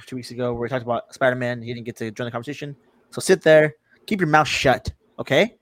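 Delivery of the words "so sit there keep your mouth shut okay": mock bossy. Teasing cohost to stay silent.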